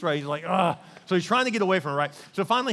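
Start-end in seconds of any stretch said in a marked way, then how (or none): 0.5-0.8 exasperated groan. Acted. Joseph's exasperation at her advances.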